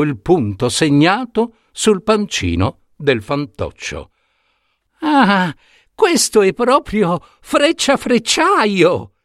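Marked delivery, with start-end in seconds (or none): 5.0-9.1 put-on old woman's voice. Old woman exclaims behind king.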